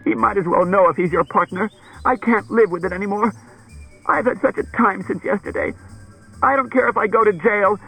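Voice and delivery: high, loud, frantic pleading; frightened. A narrator's reading. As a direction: babble in fear and beg for protection. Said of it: "I'm fr-, frightened".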